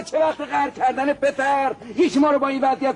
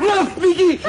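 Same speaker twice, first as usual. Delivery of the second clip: excited laugh; 4 semitones higher, 5 dB louder than usual. Acted. Delighted at the solution.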